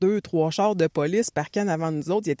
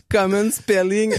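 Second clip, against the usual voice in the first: slow, mock-teasing English; mocking cop; 3 dB louder, slower than usual. Imitating the police officer teasing him, slow mock. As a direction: drag it out like a smug cop. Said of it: "il s'est foutu de ma gueule".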